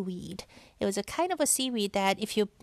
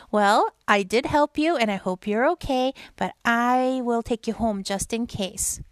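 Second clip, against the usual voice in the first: put-on Boyfish voice; 5 dB louder than usual. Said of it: "I'll do the Boyfish".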